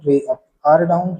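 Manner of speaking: slow, spaced drill of the two sounds; slow practice recitation. Shown as a demonstration. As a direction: say each one slowly for the learner. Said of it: "तो इनको ऐसे practice करना".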